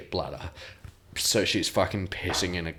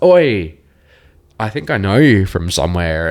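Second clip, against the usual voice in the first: excited call; 2 semitones higher, 11 dB louder than usual. Retold or imitated. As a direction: call out, thrilled to spot her. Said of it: "I was like".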